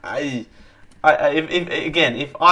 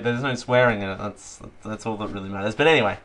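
usual speaking voice

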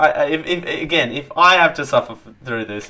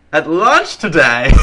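laughing; 5 semitones higher, 5 dB louder than usual. Real, not acted. Cracks up mid-sentence.

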